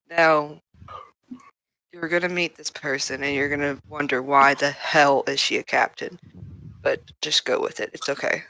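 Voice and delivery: low, soft confidential murmur; quiet aside. Acted. Trix briefing someone out of Kalora's earshot, quietly. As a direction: keep it down, out of earshot. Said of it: "purposely doing it quietly and far away".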